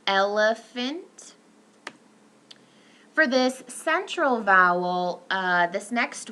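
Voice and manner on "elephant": elephant drawn out slowly; slow demo word. Shown as a demonstration. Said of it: "You'll see it in the words".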